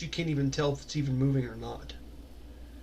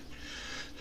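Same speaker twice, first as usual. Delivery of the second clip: soft breathy exhale; voiceless sigh; heavy sigh; 18 dB quieter than usual. Acted. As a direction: let out a long quiet sigh. Character sighs after the steering order.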